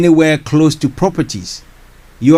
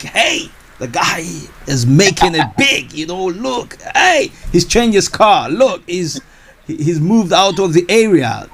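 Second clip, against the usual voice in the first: higher, excited hearsay chatter; imitating gossiping onlookers; 5 semitones higher than usual. Host imitating people impressed by a property investor, excited. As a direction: lightly act out envious neighbours pointing. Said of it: "people are like".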